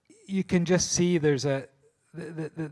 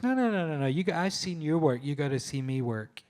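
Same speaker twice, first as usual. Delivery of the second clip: Bill Murray insisting; 2 semitones higher than usual. Retold or imitated. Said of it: "He goes".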